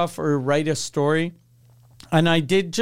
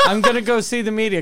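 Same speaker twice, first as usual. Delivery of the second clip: fast, higher line broken by laughter; laughing retell; 5 semitones higher, faster than usual. Retold or imitated. Boy retelling his media threat to friends, laughing fast. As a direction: rattle it off while laughing. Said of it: "And I was like".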